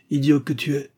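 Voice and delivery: a touch of irritable scolding; Jacob grumbling. A narrator's reading. Old man scolding his flattering lawyer, grumbling. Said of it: "grogna Jacob".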